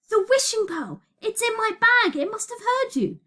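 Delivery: high, loud, sudden realisation; excited cry. A narrator's reading. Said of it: "cried Elliot".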